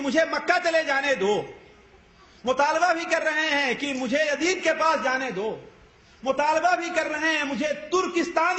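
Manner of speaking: high-pitched, repeated appeal; insistent retold plea. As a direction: press each demand home on a high, sustained note. Retells repeated pleas to be let go.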